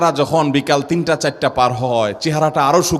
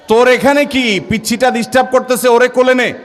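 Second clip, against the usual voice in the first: scolding grandmother; 6 semitones higher than usual. Retold or imitated. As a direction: snap at the child to get lost. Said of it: "দাদি এক ধমক দেয়".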